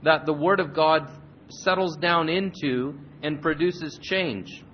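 earnest, measured prayer to the Father. Acted. Pastor praying before the Bible lesson, earnest prayer voice. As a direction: pray it sincerely over the congregation.

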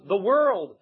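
"world" given full weight; stress on WORLD. Retold or imitated. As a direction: land firmly on the word "world". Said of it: "He put a stress every night".

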